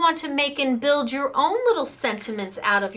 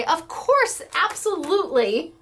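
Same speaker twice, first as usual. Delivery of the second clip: imitating Greg; 7 semitones higher than usual. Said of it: "he'll say".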